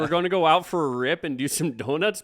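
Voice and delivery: loud, high hammed-up Canadian redneck accent. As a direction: belt it out like a rowdy Canadian redneck buddy. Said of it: "redneck Canadian accent is my favorite accent".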